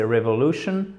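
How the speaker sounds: "revolution" stressed firmly on LU; word stress. Shown as a demonstration. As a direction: lean on the third syllable, LU, in "revolution". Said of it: "L'accent tonique, il est là". (« revolution » accentué sur la syllabe LU)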